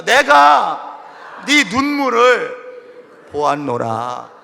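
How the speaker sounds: loud, slow lead for the congregation to repeat; call and response. Shown as a demonstration. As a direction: lead the line for all to echo. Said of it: "따라합시다". (따라하도록 크게 선창)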